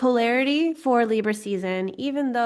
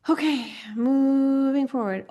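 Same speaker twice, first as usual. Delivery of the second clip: brisk announcement; 5 semitones higher, 4 dB louder than usual. Real, not acted. Moving the class on.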